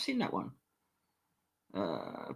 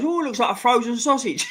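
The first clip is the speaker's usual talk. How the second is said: higher put-on character voice; quoting the film; 8 semitones higher than usual. Retelling a film scene to chat, in a put-on voice. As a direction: toss off the film's line in a different voice. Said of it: "He goes".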